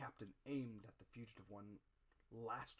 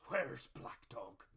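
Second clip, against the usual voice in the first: slow, louder fearful cry; 9 dB louder, much slower than usual. A narrator's reading. Stricken captain waking in panic, fearful cry. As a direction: rise up in panic asking for your enemy.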